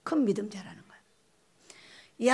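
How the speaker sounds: slow hushed whisper. Real, not acted. Telling the congregation in a slow whisper. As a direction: let the punchline drop to a whisper.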